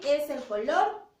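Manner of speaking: put-on slow, loud, stretched out for a child; drawn-out classroom model word; slow teaching drawl. Shown as a demonstration. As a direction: stretch each sound so the child hears it. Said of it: "La palabra".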